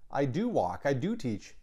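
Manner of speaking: "do" stressed in "I do walk" and "I do teach"; "do" leaned on in "I do walk", "I do teach"; emphatic do. Shown as a demonstration. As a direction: tap the "do" each time. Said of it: "And then there's the emphatic".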